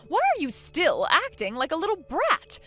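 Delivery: loud, indignant lecture; angry scolding. Acted. Mother-in-law demanding obedience, loud and indignant. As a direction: put the brat in her place.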